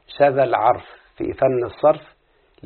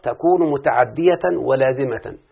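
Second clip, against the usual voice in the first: slow text reading; slower than usual. Shown as a demonstration. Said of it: "يقول المؤلف رحمه الله".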